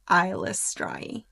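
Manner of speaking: Eilistraee ending in "strai"; correctly pronounced Eilistraee. Shown as a demonstration. Host quoting the author's confirmed pronunciation, Eilistraee with "strai". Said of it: "also confirmed that it's pronounced".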